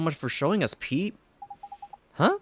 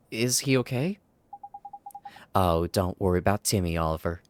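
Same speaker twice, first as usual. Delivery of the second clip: cooing Leela. Acted. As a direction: coo at the cat like a granny. Leela coos over cat.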